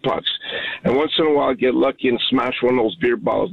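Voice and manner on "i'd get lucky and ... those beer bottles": usual speaking voice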